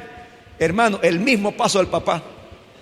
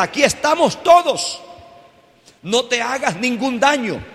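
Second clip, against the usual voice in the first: raised, higher-pitched preacher's cry; mock shout; 4 semitones higher than usual. Paul calls to the jailer about to kill himself, mock shout. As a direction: call out urgently, without a full yell. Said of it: "Pablo le grita".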